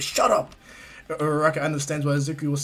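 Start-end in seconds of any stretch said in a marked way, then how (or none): 0.0-0.6 high, loud retort; sudden flustered shout; embarrassed yell. Retold or imitated. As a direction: yell it back to silence the teasing. Embarrassed Bakugo yells back at Izuku.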